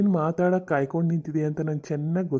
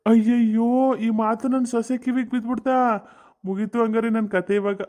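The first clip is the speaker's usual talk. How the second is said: comic panic; 5 semitones higher than usual. Acted. Mother-in-law caught by her daughter-in-law, higher comic panic. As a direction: caught out and flustered.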